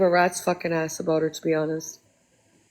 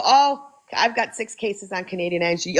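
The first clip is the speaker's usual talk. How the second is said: mocking Tim.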